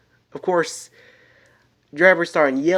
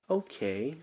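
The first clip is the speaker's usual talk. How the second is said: calm; 12 dB quieter than usual. Acted. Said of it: "mostly in a calmly manner".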